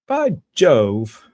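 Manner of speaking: loud, hammed-up British exclamation; school-play knight in a put-on British accent. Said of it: "do a little British accent".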